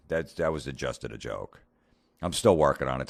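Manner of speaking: ordinary delivery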